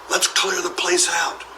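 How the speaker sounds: high, breathy burglar whisper. Acted. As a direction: warn in a sneaky whisper. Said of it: "whispered the first burglar".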